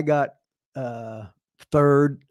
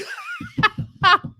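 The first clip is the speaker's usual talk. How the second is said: big laugh. Real, not acted. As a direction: laugh hard at the punchline. Laughs after punchline.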